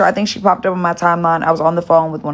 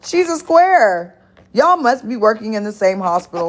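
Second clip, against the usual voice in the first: mock disdain; 3 semitones higher than usual. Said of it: "her cousin is like".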